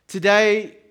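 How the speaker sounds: Today belted out high and loud; loud emphatic call. Acted. Preacher calling the congregation, loud and emphatic. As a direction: hit the word Today hard, ringing out. Preacher punching a key word.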